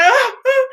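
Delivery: high, loud "ah, ah"; high yelps in imitation; imitated wobbling cries. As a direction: mimic someone teetering off balance. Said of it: "she was like".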